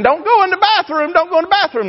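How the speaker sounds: high, urgent repeated warning; mama warning. Retold or imitated. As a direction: warn the baby away from the bathroom. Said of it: "Mama start saying".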